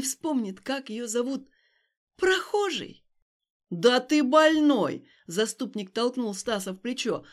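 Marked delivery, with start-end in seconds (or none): 2.2-3.0 bitter cry. Acted. Stas repeating, furious. 3.7-5.1 loud, slow yell; indignant shout. Acted. Passer-by shoving Stas, yelling he is crazy.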